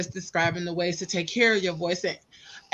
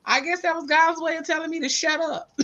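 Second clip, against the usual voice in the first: amused resignation; 7 semitones higher than usual. Retold or imitated. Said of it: "I was like".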